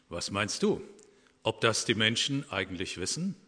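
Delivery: calm storytelling of an animal fable; story reading. A narrator's reading. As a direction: read the fable to the congregation. Reads a Christmas fable aloud. (Fabel vorlesen, erzählend)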